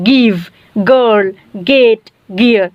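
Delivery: গিভ, গার্ল, গেট, গিয়ার, each opening on a hard g; hard G exceptions. Shown as a demonstration. Teacher showing words that break the rule, গিভ, গার্ল, গেট, গিয়ার with hard g openings. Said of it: "গ এর মতো উচ্চারণ হয়".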